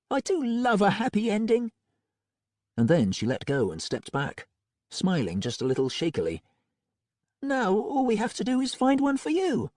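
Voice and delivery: high, bright-voiced young woman; witch Molly. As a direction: play Molly relieved and a bit shaky. Voices Molly, high female figure.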